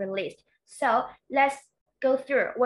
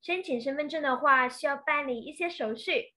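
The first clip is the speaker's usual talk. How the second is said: fast fluent reading; 3 semitones higher, faster than usual. Shown as a demonstration. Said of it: "If you could say".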